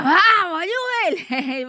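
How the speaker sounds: imitated high fan yell; Kiko. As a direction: burst out high with the club cry, mocking a fan. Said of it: "cada vez que grita". (imitación burlona de grito de hincha)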